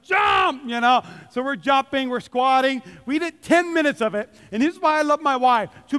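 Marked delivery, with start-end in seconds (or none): 0.0-0.6 mock trainer shout. Pastor imitating the DVD trainer, mock shout. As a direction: bark it like a workout coach. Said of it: "guy in the DVD is like".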